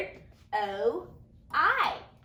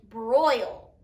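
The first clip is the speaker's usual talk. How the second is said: slow sounded-out word; 2 semitones lower, 4 dB louder than usual. Shown as a demonstration. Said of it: "I hear the oi sound in the middle".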